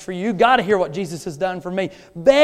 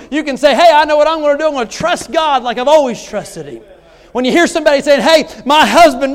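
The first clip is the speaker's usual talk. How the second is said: louder, insistent sermon drive; preaching; 6 semitones higher, 6 dB louder than usual. Acted. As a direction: press the congregation hard. Preaching at full force.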